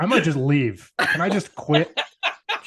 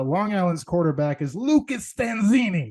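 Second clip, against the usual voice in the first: put-on New York accent; 3 semitones higher than usual. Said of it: "our best or worst ... New York accent".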